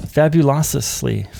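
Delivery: fabulously slow, falling, syllables stretched; drawn-out repeat. Real, not acted. Repeating the word to himself, slow falling. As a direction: let fabulously fall slowly.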